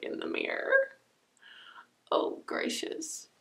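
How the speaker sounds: speaking with hand at mouth; fingers on lips. Real, not acted. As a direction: lips partly covered by finger. Seen 0: Fingers press on lips from before start until about 1.8s.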